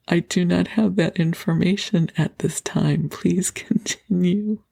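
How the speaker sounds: flat machine-like recitation, laughing at the end; robotic partner voice. Retold or imitated. Partner during the exercise, robotic and stiff. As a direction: play the partner like an automated message. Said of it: "my partner says".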